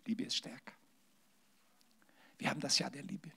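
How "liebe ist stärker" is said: much softer, lingering repeat; the girl gently repeating her words. Retold or imitated. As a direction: say "Liebe ist stärker" again gently and softly.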